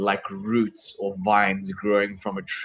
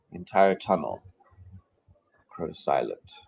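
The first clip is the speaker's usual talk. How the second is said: game master's scene setting. Acted.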